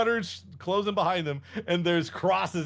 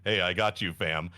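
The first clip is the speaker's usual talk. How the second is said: casual God; 10 semitones lower than usual. Retold or imitated.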